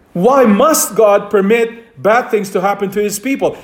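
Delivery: "must" punched within the question; stress on must. Real, not acted. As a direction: lean hard on "must", then carry on evenly. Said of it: "the emphasis is on the word must".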